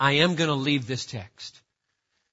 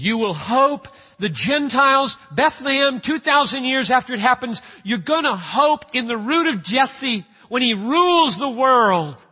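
high, loud preacher's paraphrase of Paul; emphatic proclamation; 7 semitones higher, 6 dB louder than usual. Retold or imitated. Preacher voicing Paul's promise to the Gentiles, loud proclamation. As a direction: proclaim it loudly, pitched well up.

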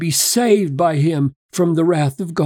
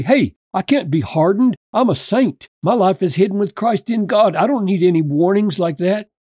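mock-casual, higher and quick, shrugging it off; smug dismissive believer; 3 semitones higher, faster than usual. Preacher mocking a deceived Christian, breezy smug brush-off. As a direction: play a self-assured saint brushing off the warning. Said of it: "No Christian talks like that".

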